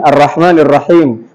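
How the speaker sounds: "Arrahmanirrahim" with a falling wave at the end; Indonesian-style falling "Arrahmanirrahim"; incorrect wavy intonation. Shown as a demonstration.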